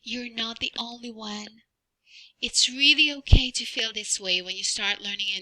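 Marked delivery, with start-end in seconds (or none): 0.0-1.6 soft secret aside; cupped hand whisper. Acted. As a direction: whisper it close to the ear. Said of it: "let me whisper something in your ear".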